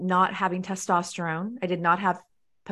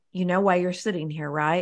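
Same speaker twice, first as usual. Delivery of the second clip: imitated whisper. Retelling what Oprah whispered before the show: imitating Oprah whispering. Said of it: "she whispered to me and she said".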